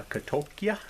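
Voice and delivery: "katokia" in an unsure, anglicized Greek pronunciation; halting Greek attempt. Shown as a demonstration. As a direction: say "katokia" as ka-TOH-kee-a. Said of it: "I put the accent in the total wrong place".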